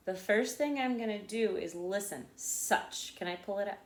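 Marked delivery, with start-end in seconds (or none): 2.4-3.2 "Such" pushed out as one syllable; "Such" as one unbroken demonstration word; one breath. Shown as a demonstration. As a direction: say "Such" whole, in a single breath. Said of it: "push it out in one breath".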